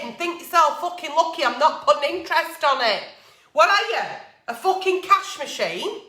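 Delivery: real heated rant, sweary and building. Real, not acted. Ranting at friends who owe money, heated. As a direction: let the anger boil over at the cheeky borrowers. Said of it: "sorry for getting a bit, um, heated up there".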